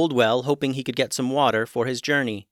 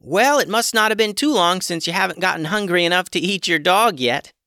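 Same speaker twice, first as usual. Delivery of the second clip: higher, louder joking shout; mock yell; 7 semitones higher, 5 dB louder than usual. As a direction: yell a joke down the well. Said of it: "yelled Hummus".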